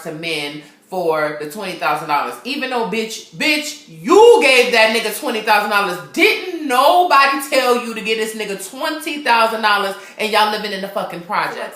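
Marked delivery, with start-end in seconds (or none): 2.4-11.6 exasperated telling-off. Real, not acted. Reviewer berates the movie mom.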